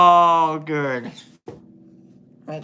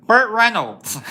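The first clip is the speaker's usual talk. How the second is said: laughing guess; 7 semitones higher, 7 dB louder than usual. Real, not acted. Guessing celebrity hot rods, laughing.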